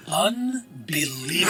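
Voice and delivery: slow, drawn-out exasperation; slowly appalled talking dog; exasperated disbelief. Acted. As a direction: stretch the word out in disbelief. Dog's scorn at penniless customers.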